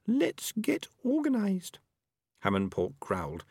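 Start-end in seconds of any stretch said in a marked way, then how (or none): 0.1-1.8 very high, slow small rat voice; Peaches, young female rat. A narrator's reading. Peaches proposes action to the rats, high and slow. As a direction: suggest it slowly in a high-pitched voice.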